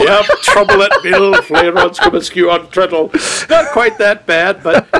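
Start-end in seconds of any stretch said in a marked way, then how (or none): 0.0-3.1 a hint of broad Yorkshire; lightly put-on North Country English; North Country accent. Co-host playing along with the joke in North Country accent. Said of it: "more like today's North Country".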